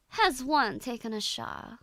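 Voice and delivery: mock posh British English; posh British accent. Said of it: "it already sounds much more posh".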